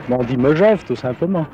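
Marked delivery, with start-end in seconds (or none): 0.4-0.8 "megève" with a light schwa; pronounced Megève. Shown as a demonstration. Local correcting the others, pronounced Megève. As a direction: say "megève" simply, with a short "me-". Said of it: "On ne dit pas mais ni mais".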